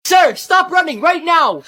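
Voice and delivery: high, loud, slow police shout; shouting cop. Acted. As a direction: order him to stop.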